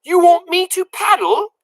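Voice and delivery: high, puzzled mishearing; high loud baffled question; confused girl. A narrator's reading. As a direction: ask like you misheard badly. Mig mishears.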